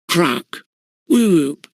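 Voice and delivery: a pained whoop from the captain; roared. A narrator's reading. Wingate, struck on the hand by Bunter, roaring whoop. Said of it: "roared Wingate".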